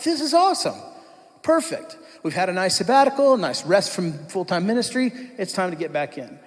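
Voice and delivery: high, bright burst of delight; excited. Retold or imitated. Youth pastor recalling the job offer, high excited gushing. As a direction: gush about the perfect new job. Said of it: "We're like".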